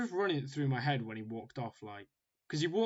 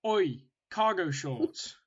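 spiteful jeer; 3 semitones higher, 3 dB louder, much slower than usual. Retold or imitated. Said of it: "he said it really spitefully".

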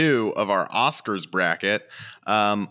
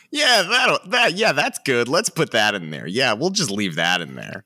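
casual editor voice; 3 semitones higher than usual. Retold or imitated.

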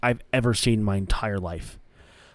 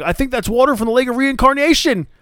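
higher, mock-solemn announcer; Excalibur announcing; 10 semitones higher than usual. Excalibur on commentary, describing the pool: mock-solemn call. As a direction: declare it with mock wonder. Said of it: "Excalibur goes like".

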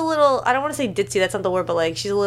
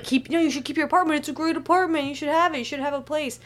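high mock Alvy voice; 8 semitones higher than usual. Retold Alvy insisting she keep apartment.

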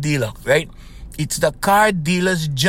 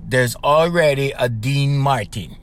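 drawn-out mock mother putting him down; mother, slow and flat; 4 semitones lower than usual. Mother slowly shutting down her son's dream. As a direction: slowly spell out the obvious like his mother. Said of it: "And my mother goes".

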